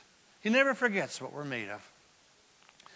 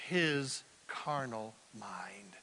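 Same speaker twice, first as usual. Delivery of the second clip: whisper; 8 semitones lower, 8 dB quieter, much slower than usual. Acted. Dropped to a whisper.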